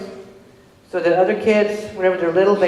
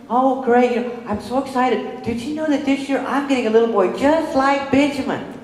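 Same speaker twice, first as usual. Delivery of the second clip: high, bubbly teacher voice; gushing excitement; 8 semitones higher than usual. Retold or imitated. Teacher Renee telling mother about new pupil, high and bubbly. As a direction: oversell her excitement, sugary and high.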